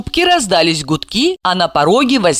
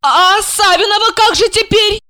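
less joyful; 3 dB louder than usual. Acted. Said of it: "Растеряв часть радости".

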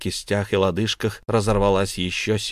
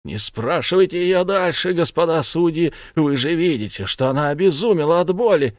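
urgent plea; 8 semitones higher, 4 dB louder than usual. Acted. Son shields mother.

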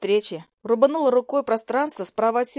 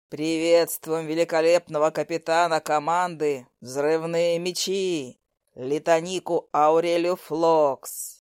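lower, slow ceremonial announcer call; Eric's emcee voice; 4 semitones lower, slower than usual. Acted. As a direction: announce her like a stage host. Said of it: "Голосом конферансье протрубил Эрик".

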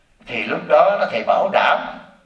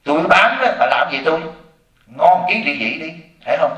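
retorting. Retold or imitated. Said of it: "tôi nói".

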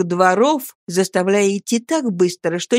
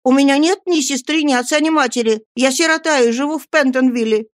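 put-on higher boyish pleading; earnest protest; 6 semitones higher than usual. Oliver tells the crowd he is an orphan, pleading. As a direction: insist with rising alarm.

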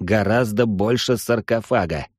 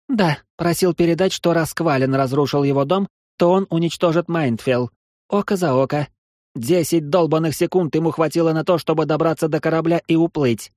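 higher, heated angry rant; furious; 6 semitones higher than usual. Acted. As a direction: vent at full fury. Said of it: "разошлась не на шутку Анастария".

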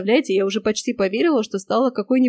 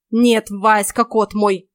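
louder, irritated witch; angry sarcasm; 5 dB louder, much slower than usual. Acted. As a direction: snap it back sarcastically. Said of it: "снова обозлилась ведьма". (ведьма злобно огрызается)

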